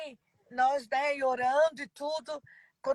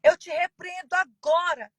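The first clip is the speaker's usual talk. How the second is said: retold rebuke; 3 semitones higher, 4 dB louder than usual. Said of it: "gritei com todas as minhas forças".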